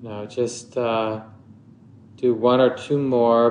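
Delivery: unhurried meditation guidance with long pauses; measured meditation teacher, phrase by phrase; guided meditation. Acted. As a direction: guide listeners gently into stillness, leaving long silences.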